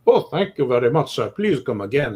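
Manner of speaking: a bad Italian accent, lightly done. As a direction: waiter thanking in Italian accent. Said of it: "that's my Italian accent".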